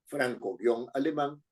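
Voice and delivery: franco-alemán said very slowly, both parts clearly apart; slow franco-alemán right down for dictation; slow repeat. Shown as a demonstration. Teacher repeating franco-alemán slowly for students to write. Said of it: "teacher repeats the example".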